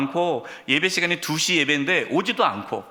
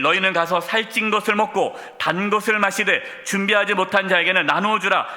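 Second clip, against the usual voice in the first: scripture reading; 3 semitones higher than usual. Acted. Reads scripture aloud.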